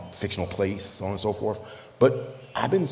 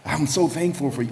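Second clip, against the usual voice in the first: imitating a delighted friend, higher-pitched; happy, lifted retelling of gratitude; overjoyed friend; 6 semitones higher than usual. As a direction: gush with thanks as the quoted friend. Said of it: "he was so overjoyed".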